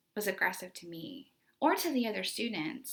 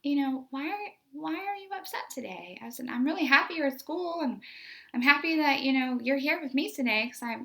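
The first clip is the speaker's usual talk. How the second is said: cheerful teacher encouragement; 4 semitones higher, 5 dB louder than usual. Retold or imitated. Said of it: "I was like".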